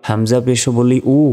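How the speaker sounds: উ as a simple open vowel; plain hamza u. Shown as a demonstration. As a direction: say উ without any throat squeeze. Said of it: "কিভাবে?".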